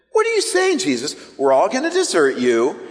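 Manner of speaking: incredulous mock protest; bewildered disciples. Disciples questioning Jesus about deserting him, bewildered. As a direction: imitate baffled disciples, pitch leaping up at the start. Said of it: "what the disciples are starting to think".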